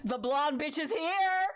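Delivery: slow, drawn-out excited announcement; thrilled, drawn-out cry; excited outburst. Real, not acted. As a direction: crow it with glee, stretching the words. Excited reaction to awaited character appearing.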